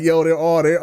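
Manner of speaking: retold excited exclaim. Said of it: "I'm like".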